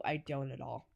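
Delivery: soft, laughing admission; giggling as she admits it. Real, not acted. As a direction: say it through a quiet laugh.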